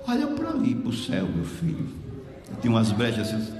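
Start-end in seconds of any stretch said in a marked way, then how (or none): 0.1-1.9 frail sick woman. Retold or imitated. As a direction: point him upward in a feeble murmur.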